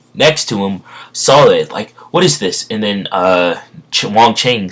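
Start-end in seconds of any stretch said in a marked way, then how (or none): 2.1-2.7 high-pitched startled question; lightly acted alarm; startled witness. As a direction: react to finding something shocking. Voices startled witness to the killing.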